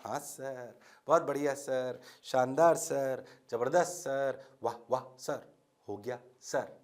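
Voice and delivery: low, soft chorus of yes-sir; mock student praise. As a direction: murmur praise like a dutiful class. Voicing students praising the teacher. (धीमी, नीची आवाज़ में छात्रों की नकल)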